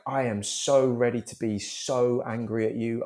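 slow, deliberate gloating threat; relishing the menace, unhurried; vitriolic relish. Retold or imitated. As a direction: savour each word, drawn out. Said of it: "vitriolic sort of celebration".

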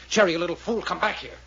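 put-on detective shouting after the runaway girl; calling out sharply. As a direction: call her back before she gets away. Detective calls after fleeing girl.

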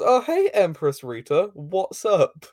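breezy mock-casual hello; casual greeting. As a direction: greet the empress like an old pal. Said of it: "he just kind of casually is like".

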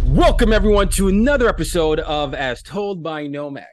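loud, high-pitched host welcome; rousing show opener. Real, not acted. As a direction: belt out the welcome to the audience. Host belts out the show opening.

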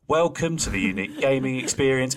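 bored receptionist drone; flat, deflated welcome; monotone voice. Retold or imitated. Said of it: "her face drops again and you hear her go".

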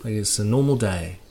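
hushed, halting commentary with long pauses; royal commentator. Acted. Royal commentator describing the Queen's walk, hushed and halting. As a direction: imitate soft, reverent royal coverage. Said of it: "do you think they speak like that".

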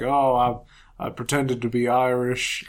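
put-on Western accent. Gamer retells the villain's confession to his friend, in a hint of Western accent. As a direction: imitate the villain with an accidental Western twang. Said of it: "I don't know why I'm being Western here".

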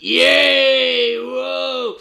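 high, loud Kiwi cheer; Kiwi accent. Retold or imitated. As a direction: yell it out in a New Zealand accent. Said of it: "here's my other Kiwi accent".

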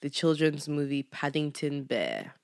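lightly voiced serious essay intro; mock video essay host. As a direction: pretend to open a video essay.

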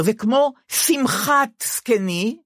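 "שמחת" said slowly as simchat, with hiriq; slow careful "שמחת זקני" with hiriq; hiriq pronunciation. Shown as a demonstration. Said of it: "עם חיריק בשין".

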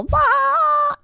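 sudden high-pitched blah; high squeaky blah. Retold or imitated. Mocking noise after quote.

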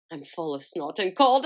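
lightly put-on storyteller voice, rising at the end; mock audiobook voice. Podcaster reading her own notes to listeners in a mock audiobook voice. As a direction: read it like the opening line of a novel, half joking. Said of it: "I don't know why I'm doing that voice".

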